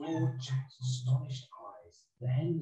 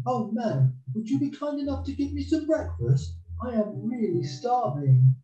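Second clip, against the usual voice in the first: put-on high, louder begging boy; Jack, pleading; 11 semitones higher, 5 dB louder than usual. Jack asks the wife for breakfast, pleading. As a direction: plead hungrily in a high boy's voice.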